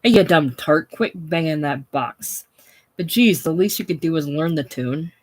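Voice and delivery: loud bark at the piano player; yelling. Acted. Hope yelling at Cora over her piano playing, loud. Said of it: "He yells at Cora".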